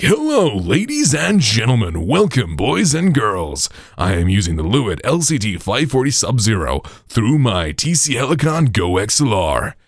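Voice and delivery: high presenter voice greeting the audience; piercing voice. Shown as a demonstration. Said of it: "you can already hear it's a bit more piercing".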